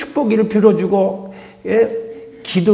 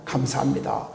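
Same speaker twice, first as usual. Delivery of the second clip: soft whispered thanks; 6 semitones lower, 10 dB quieter than usual. Shown as a demonstration. Models thanks to God.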